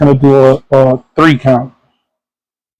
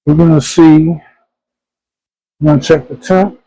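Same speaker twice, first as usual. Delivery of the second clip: talking through a face mask; muffled behind a mask. Real, not acted. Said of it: "if I sound a little bit muffled, it's because I have my mask on".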